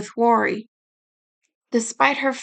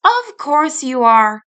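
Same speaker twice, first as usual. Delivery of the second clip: smiling; 6 dB louder, slower than usual. Acted. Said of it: "Rin smiled".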